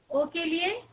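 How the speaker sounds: normal talking voice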